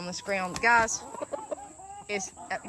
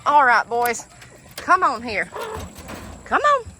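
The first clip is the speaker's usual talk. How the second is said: calling out; 4 semitones higher, 7 dB louder than usual. Real, not acted. Calling ducks out of pen.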